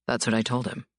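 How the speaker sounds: calm and unbothered. A narrator's reading. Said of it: "Dante said calmly".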